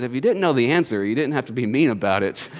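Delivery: low, subdued complaint; lightly acted battered lion; beaten lion. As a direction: grumble softly in defeat, voice dropping. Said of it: "all bruised and beaten and bloody".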